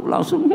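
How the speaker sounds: a sudden high laugh mid-sentence; high burst of laughter. Real, not acted. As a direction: break into a quick high laugh. Laughs while telling of joy.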